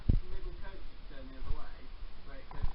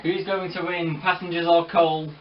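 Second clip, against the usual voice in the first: racehorse commentator; 2 semitones higher, 5 dB louder than usual. Pretend. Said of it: "talk like a racehorse commentator".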